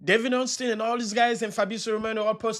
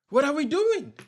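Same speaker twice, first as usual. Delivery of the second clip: exasperated; 7 semitones higher than usual. Real, not acted. Fan rant at own club.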